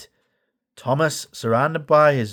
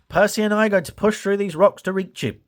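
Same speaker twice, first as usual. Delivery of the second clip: higher, determined engine; Whiff voice; 7 semitones higher than usual. A narrator's reading. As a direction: Whiff explains the plan. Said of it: "Whiff puffed".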